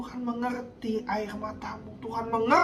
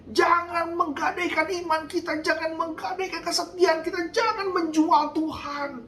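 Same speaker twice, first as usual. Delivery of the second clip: raised, driving sermon delivery; fiery preaching. Acted. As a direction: preach it hard to the congregation. Preaching at full force.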